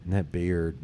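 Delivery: slow lightly voiced flirty woman; a hint of a forward woman, slow; woman's come-on. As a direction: drawl it out like she's hitting on you. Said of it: "She was like".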